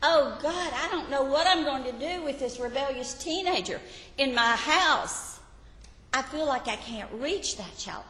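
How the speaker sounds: put-on a worn-out parent crying out over a rebellious teen; desperate parent's prayer. Preacher voices a parent lamenting to God over a teenager, pleading. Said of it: "Have you been there?".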